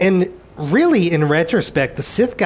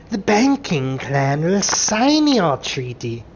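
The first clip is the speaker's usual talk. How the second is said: slow alien banker; slower than usual. Retold or imitated. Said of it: "they're like".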